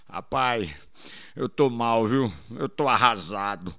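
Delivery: low, soft, dejected; mock devastated. Traveller telling his friend he is devastated, low and soft. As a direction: sound crushed, half-joking.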